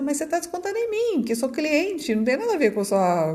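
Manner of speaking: acted-out customer complaint, lifted in pitch; retold protest. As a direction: raise the pitch in mock protest.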